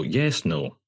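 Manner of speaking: mock posh Scottish, only lightly put on; understated posh Scottish accent. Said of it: "in a really posh Scottish accent".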